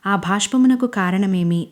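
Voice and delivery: lightly voiced old-style stage king, slowing at the end; mock-theatrical questions in a stage hero's manner; dramatic stage dialogue. Manish teasing crying Anjali in mild mock stage voice. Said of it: "పెద్ద పెద్ద నాటకీయ డైలాగులు చెప్తాడు".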